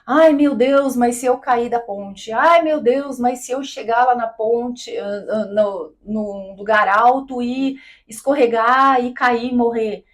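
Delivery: imitating a panicky person, lightly; a hammed-up "Ai, meu Deus" fretting; mock panic. Imitating someone who puts too much emotion into the fear of falling, in mock panic. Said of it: "fica envolvendo muita emoção naquilo".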